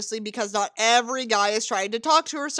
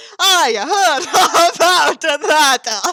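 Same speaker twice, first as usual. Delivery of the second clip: very loud, slow, hammy put-on Italian accent; 5 semitones higher, 8 dB louder than usual. Reading a character's line aloud from a story: attempted Italian accent. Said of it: "that's the closest thing I can do to an Italian accent".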